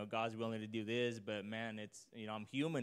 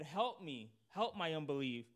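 pleading cry; 5 semitones higher than usual. Retold or imitated. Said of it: "the cry of a father".

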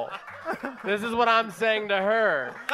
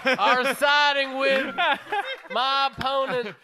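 mock Southern character; 4 semitones higher than usual. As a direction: draw it out in mock indignation. Merle voice parodying candidate's papers.

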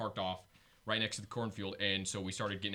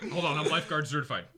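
laughing mock bravado; 4 semitones higher, 6 dB louder than usual. Mock heroic line, laughing.

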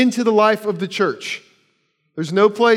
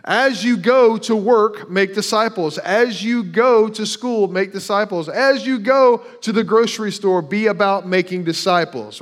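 higher and louder, As you go drawn out slowly each time; building emphasis; 3 semitones higher, 3 dB louder, slower than usual. Acted. Preacher drives the point home to the church, building loud emphasis. Repeated emphatic verse rewording.

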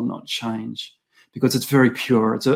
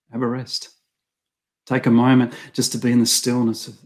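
gentle fatherly voice. Retold or imitated. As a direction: speak it like a father calming a tired son.

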